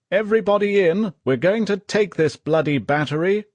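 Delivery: high, loud battle yell. A narrator's reading. Commanding officer ordering the attack, loud yell. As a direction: roar the order to charge. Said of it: "heard him yell".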